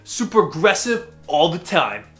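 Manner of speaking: pumped-up bro investor. Acted. Host playing a cocky aggressive investor, loud bro. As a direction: sell it like a swaggering trader. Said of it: "the aggressive investor".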